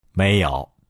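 calm, low-pitched answer with a smile; smiling, unruffled professor; smiling reply. A narrator's reading. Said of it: "微笑着回答说".

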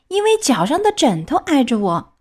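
put-on a touch of childish stalling; whiny excuse. Puppet makes an excuse to the fairy, mildly whiny.

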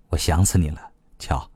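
low, soft teasing with a smile; smiling endearment. A narrator's reading. Leaning on the wall beside the other, softly smiling. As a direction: say it quietly through a smile. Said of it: "笑着说".

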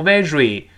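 "very" wrongly said with a buzzed "zh" for R; 错误R音示范. Shown as a demonstration. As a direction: misread "very" as "vezhry". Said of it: "不要读very". (把"very"里的R读错成摩擦音)

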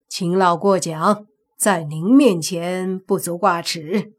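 unhurried courteous deference; polite modesty. Acted. Taoist answers the old family head's praise, polite modesty. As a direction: politely wave the compliment away. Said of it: "张道长客气地说道".

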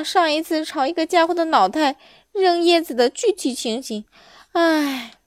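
loud, rambling monkey monologue; chattering monkey. Acted. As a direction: prattle on wistfully as a monkey. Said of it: "猴子喋喋不休地说着".

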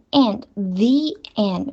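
"the and" said slowly as "thee and"; slow, clear "thee" in the and; "thee" before a vowel. Shown as a demonstration. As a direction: say the as thee, leading into and. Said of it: "不是the，the".

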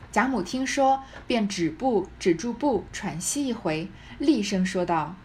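measured, expressive storytelling read; deliberate literary narration; story narration. A narrator's reading. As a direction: read it out like a classic novel. Reads the novel aloud.

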